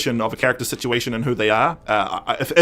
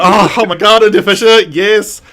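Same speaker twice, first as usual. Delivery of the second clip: gushing, higher-pitched fan excitement; swooning fan; 5 semitones higher, 4 dB louder than usual. Retold or imitated. Fan recognising a favourite actor's voice, excitedly swooning. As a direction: act out giddy delight at a favourite actor. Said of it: "I swooned as soon as she started talking".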